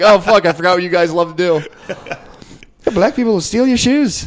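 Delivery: high, slow sarcastic agreement; mock sarcasm. Him mocking the Irish lady back, slow high sarcasm. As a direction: slowly play along, dripping sarcasm. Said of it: "I was like".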